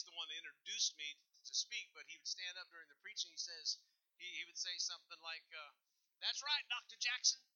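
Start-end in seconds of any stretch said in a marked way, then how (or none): 6.2-7.4 high, loud excited exclamation; excited bishop. Retold or imitated. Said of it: "the bishop got real excited".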